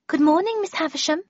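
polite greeting, high-pitched. A narrator's reading. Washerwoman greets Miss Havisham, polite. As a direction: greet a superior courteously, voice lifted. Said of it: "she said politely".

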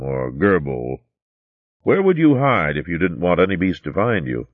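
put-on patient old storyteller coaxing the girl; a hint of a wise old recorder; old recorder Rollo.

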